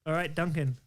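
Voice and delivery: put-on a light Scottish accent, slowed a little; mock Scottish host voice. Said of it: "That's my Scottish accent".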